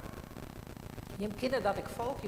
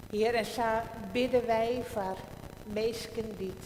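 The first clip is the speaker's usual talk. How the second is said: slow, solemn prayer voice. Acted. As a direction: pray aloud with pauses. Pastor leads congregational prayer.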